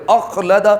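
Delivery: اخلد with a jolt on the خ from the upper throat. Shown as a demonstration. Teacher demonstrating اخلد with a jolted خ. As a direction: push the خ of اخلد hard from the top of the throat. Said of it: "تھوڑا سا زور لگانا پڑے گا".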